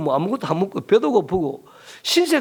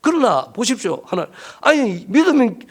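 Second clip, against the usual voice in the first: defiant complaint; 3 semitones higher than usual. Retold or imitated. Preacher retelling a pastor's complaint to God, defiant and pleading. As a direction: argue back, pushing harder as it goes. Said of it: "하나님 앞에 막 대들면서 푸념을 막 넣으면서 엉엉".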